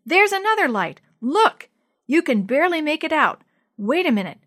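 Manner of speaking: loud, high, urgent excitement; excited discovery. A narrator's reading. Boy showing his dad a distant light, excited. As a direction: point it out urgently.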